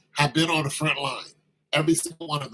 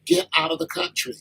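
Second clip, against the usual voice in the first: mock commanding shout; 13 semitones higher than usual. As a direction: bark it like an eviction. Sahel leaders expel the French.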